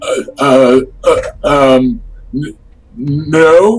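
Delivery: halting stutter, very slow and drawn out. Voicing a character offered help carrying his stake, the speaker has him stutter and stammer. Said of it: "he kind of stutters and, and stammers a bit".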